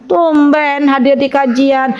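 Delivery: slow, stretched, needling "tumben"; mock catty dig; ugly intonation. Shown as a demonstration. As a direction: demonstrate a snide greeting, dragging it out. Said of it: "coba intonasinya".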